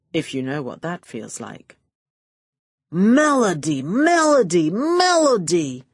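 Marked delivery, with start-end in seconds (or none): 2.9-5.8 high, loud gushing greeting; effusive showman's welcome; enthusing. A narrator's reading. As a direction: gush over her name, each one higher. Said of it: "Kleiner enthused".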